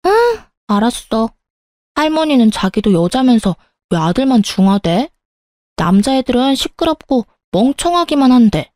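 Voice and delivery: lightly voiced child, airing a grievance; a little girl grumbling to her mum about grandma; complaining young daughter. (투덜대는 어린 딸 목소리)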